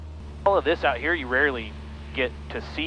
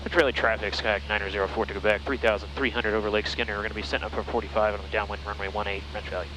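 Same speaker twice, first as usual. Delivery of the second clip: clipped radio call to traffic; pilot over the radio; 2 semitones lower than usual. Real, not acted. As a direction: read it like a position report.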